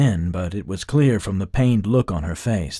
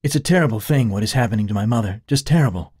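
anxious; 3 semitones higher, 4 dB louder, faster than usual. Acted. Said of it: "Sharita said anxiously".

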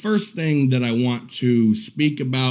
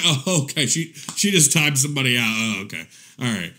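imitating her triggered reaction; 3 semitones lower, faster than usual. Showing viewers how she reacts when triggered, mock ignoring. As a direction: imitate someone pretending not to care. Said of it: "'cause she'd go like this".

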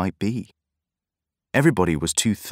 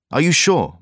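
anxious; 8 semitones higher, 5 dB louder than usual. A narrator's reading. Anxious question while running.

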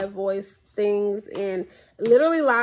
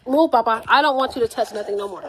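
louder, firmer telling-off; scolding son; 2 semitones higher, 5 dB louder than usual. Retold or imitated. Mother retelling scolding her son, loud and firm. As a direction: shoo the kid away from the phone.

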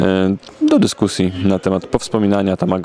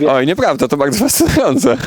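mock enthusiasm; 9 semitones higher than usual.

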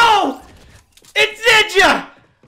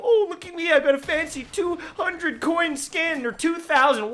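mock cocky player; 6 dB quieter than usual. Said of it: "this cocky little".

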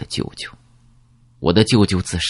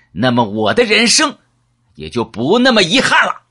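much higher, still-heated accusation; bitter outburst; 11 semitones higher than usual. Acted. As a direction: spit it out as his revenge. Character keeps raging at narrator. (激愤地高声控诉)

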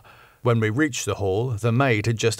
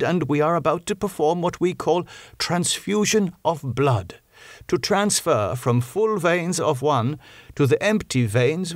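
kindly; 5 semitones higher than usual. Acted. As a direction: soften it, ease him in. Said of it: "explaining in a kindly way".

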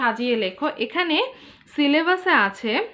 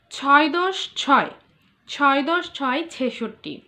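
slow counting recitation; 3 semitones higher, 4 dB louder, slower than usual. Shown as a demonstration. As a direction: recite the number table slowly for pupils. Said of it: "শতকে সেটা কত উচ্চারণ করছি আমরা". (ধীরে ধীরে উঁচু গলায় শতকিয়া পড়ে শোনানো)

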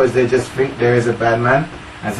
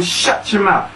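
higher-pitched, emphatic comeback; approving retort; 4 semitones higher, slower than usual. Retold or imitated. Coaching a girl to answer back, emphatic retort. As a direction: model the comeback for a child. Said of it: "Yeah, tell him".

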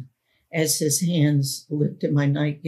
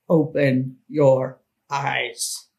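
a hint of a menacing man, slowly; gruff command; 2 semitones lower, slower than usual. The man gruffly ordering the girl close to her ear. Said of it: "said gruffly in my ear".

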